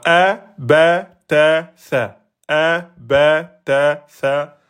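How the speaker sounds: "a, ba, ta, sa", one beat each; short vowels. Shown as a demonstration. Teacher reciting one-beat vowels, short "a, ba, ta, sa". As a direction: separate syllables "a, ba, ta, sa", none prolonged. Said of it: "Là, on est sur du un temps".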